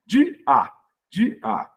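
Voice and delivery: "De a" as two syllables with a gap between; vowels separated. Shown as a demonstration. Teacher demonstrating another hiatus, vowels separated. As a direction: sound out "De a", each vowel on its own. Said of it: "É hiato também".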